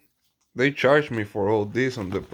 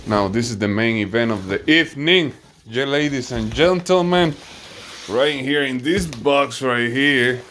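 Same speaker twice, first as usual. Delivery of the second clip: announcer voice; 2 semitones higher, 4 dB louder than usual. Pretend. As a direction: ring announcer hype. Announcing the main event.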